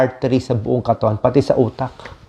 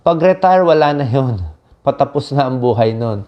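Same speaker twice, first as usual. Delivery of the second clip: dismissive quote; 2 semitones higher than usual. Retold or imitated. Doctor mimicking people who dismiss retirees, mildly scornful. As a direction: lightly imitate someone writing off the retired. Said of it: "Oo, sasabihin".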